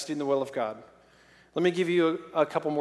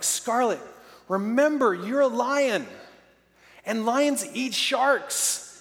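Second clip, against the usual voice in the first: encouraging reminder; 5 semitones higher, slower than usual. Retold or imitated. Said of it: "I'm like".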